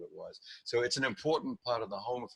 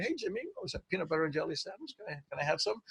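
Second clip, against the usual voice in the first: put-on kid asking; 7 semitones higher, 4 dB quieter, faster than usual. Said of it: "Little kid with a car said".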